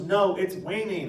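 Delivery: slow "No, it's waning" with a w for the r; "waning" firmly said with w in place of r; says w for r, insisting. Retold or imitated. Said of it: "she can't pronounce her R's".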